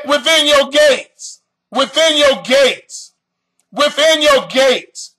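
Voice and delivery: within your gates, said slowly three times; slow repeated stress. Shown as a demonstration. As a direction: hammer each within. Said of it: "We're gonna hit them gates".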